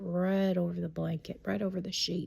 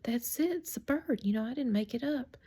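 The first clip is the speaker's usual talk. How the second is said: put-on higher, insistent child's protest; retold insistence; 5 semitones higher than usual. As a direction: insist to mama, lightly acting it out.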